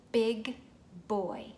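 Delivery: put-on "Big" punched loud, "boy" after; stressed first sounds. Shown as a demonstration. Parent stressing the first sound for a child. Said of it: "start with the same sound".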